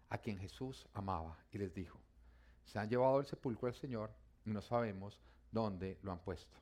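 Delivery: measured Bible narration; narrating a Gospel story; scripture reading. Acted. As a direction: read the passage aloud to a congregation. Reads the Bible passage aloud.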